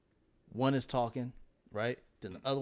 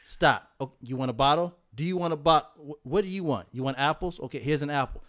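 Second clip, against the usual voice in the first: put-on louder, exasperated commands at the kids; frazzled parent yelling; 3 semitones higher, 8 dB louder than usual. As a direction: bark orders at kids running wild. Imitating parenting chaos with kids.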